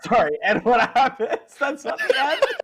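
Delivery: helpless laughing, pitch climbing high; real laughter. Real, not acted. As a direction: try to speak while cracking up. Game master cracks up while asking.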